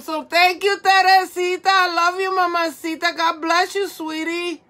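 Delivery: high, effusive gratitude; gushing thanks. Real, not acted. Streamer thanking and blessing her viewer, gushing thanks.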